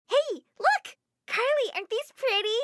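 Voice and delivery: put-on high, bright child showing off; excited little girl. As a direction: proudly show off the new boots. Niece shows new boots.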